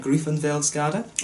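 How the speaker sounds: Griffenfeldsgade slowly sounded out as griffen-fels-gade, ending on a rising check; careful Danish. Shown as a demonstration. Reviewer double-checking a Copenhagen street name, careful and slow. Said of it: "if I've got that right".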